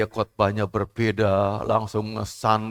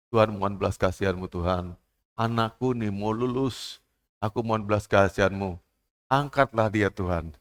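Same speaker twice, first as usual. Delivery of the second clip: softer, intimate plea; hushed prayer; 2 semitones lower, 3 dB quieter than usual. Acted. Parent quietly asking God to lift up their child. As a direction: pray quietly for your child. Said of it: "parent praying for child".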